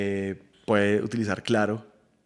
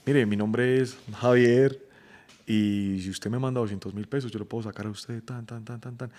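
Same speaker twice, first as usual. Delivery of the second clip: scammer voice. Retold or imitated. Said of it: "estafas desde la cárcel".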